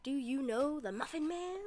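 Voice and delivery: soft amused replay; quiet recap. Acted. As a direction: murmur the quote to yourself.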